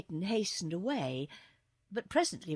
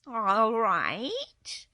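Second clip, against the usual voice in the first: louder, drawn-out cat voice, lightly sulky; grudging kitten; 2 semitones higher, 7 dB louder than usual. A narrator's reading. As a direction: give in with mild sulkiness. Surly kitten gives in.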